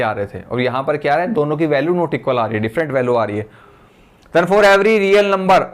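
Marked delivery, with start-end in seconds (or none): 4.4-5.6 very slow, word by word, for note-taking; slow dictating teacher; slow dictation. Shown as a demonstration. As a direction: spell it out slowly so students can write. Dictating theorem for notes.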